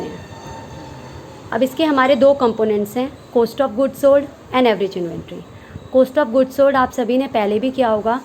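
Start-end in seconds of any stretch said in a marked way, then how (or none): 3.4-5.4 every word spaced out slowly for note-taking; slow dictation. Shown as a demonstration. Teacher dictating a definition to students, very slowly. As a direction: read it out slowly so students can write it down.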